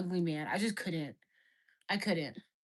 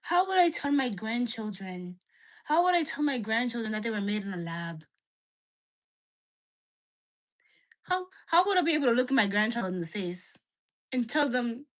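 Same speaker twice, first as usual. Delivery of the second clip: put-on Nigerian accent. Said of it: "Your dad sounds Nigerian".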